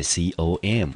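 com said slowly as one syllable, kʰəm; teacher models com slowly; slow clear com. Shown as a demonstration. 老师慢慢示范com的发音. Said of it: "我们念成com".

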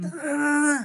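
high, sharp "tara, tara, tara" call; mock strict call. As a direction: hurry someone along like a strict older friend. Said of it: "pag may hindi siya nagawa".

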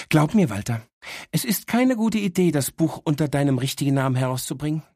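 a know-it-all little dog teasing her owner; cheeky talking dog. Acted. Dog Miss Happy speaks. (leicht gesprochene, vorlaute Hündin)

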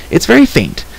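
put-on high-pitched girl, straining to read; frustrated girl character. Girl frustrated by illegible inscription.

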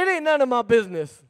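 firm and sassy, said with conviction; emphatic repeat after the pastor's nudge; like you mean it. Shown as a demonstration. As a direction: say it to your neighbor like you mean it. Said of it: "Say it like you mean it".

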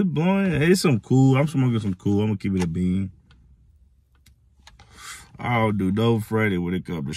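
smoky breath between words; words after a drag; talking while exhaling smoke. Real, not acted. Seen 0: Smoke streams from mouth; joint was at lips before, not during.

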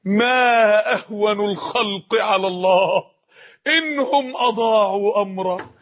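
very slow, grave quoted wisdom; solemn sage. Acted. Preacher voicing Abu al-Darda's sorrowful reply, slow and grave. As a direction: draw each word out like a weeping elder. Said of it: "قال".

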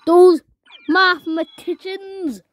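indignant shout at the winners; angry shout. Real, not acted. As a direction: yell at the guys who beat you. Outraged at losing the round.

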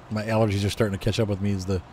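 stuffy congested voice. Real, not acted. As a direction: talk through a blocked, congested nose. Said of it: "You can hear it in my voice".

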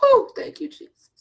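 sudden high cry of praise; overwhelmed cry. Real, not acted. Preacher overcome in prayer, crying out high. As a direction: burst out, overcome by the presence.

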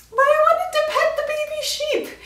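high, pleading whine; defending herself for chasing sheep, high whine; whiny. Real, not acted. Whiny protest.

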